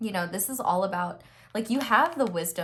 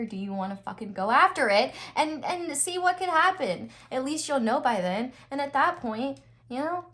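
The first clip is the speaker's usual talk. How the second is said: frat bro; 6 semitones higher than usual. Pretend. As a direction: pump them up like a frat guy. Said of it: "I don't know why I'm talking like a frat boy".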